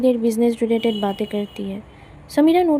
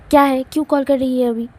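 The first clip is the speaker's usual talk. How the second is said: mild anger; faster than usual. Acted. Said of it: "गुस्से में कहती है".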